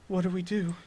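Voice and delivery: soft, timid question from a father; gentle. Acted. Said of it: "looks up and very gently goes".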